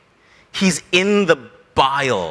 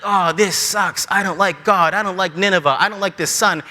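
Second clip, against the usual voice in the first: mock sulking. Jonah baking in the sun, mock sulking. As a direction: list grievances in a mild sulk. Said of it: "He's sulking, he's angry".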